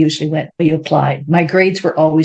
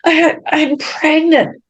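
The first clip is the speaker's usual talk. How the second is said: retold tearful confession; 10 semitones higher, slower than usual. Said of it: "I'm bawling, I'm crying".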